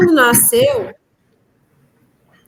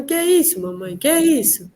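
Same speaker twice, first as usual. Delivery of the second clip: lightly voiced little child. Small daughter pointing upward at something, light child imitation. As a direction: lightly mimic a curious toddler, pitched up.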